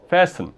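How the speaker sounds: fasten said FAS-ten, weak ending; stress on first syllable. Shown as a demonstration. Teacher repeating the model word, fasten stressed on FAS. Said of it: "a sílaba forte é essa aqui".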